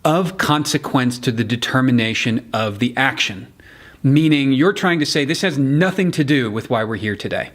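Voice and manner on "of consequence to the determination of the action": measured weight on "of consequence"; deliberate emphasis on "of consequence"; stress on of consequence. Shown as a demonstration. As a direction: mark out "of consequence to the determination of the action". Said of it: "place your emphasis on".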